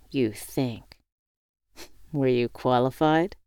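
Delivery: smile in voice. Acted. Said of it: "he asked with a smile in his voice".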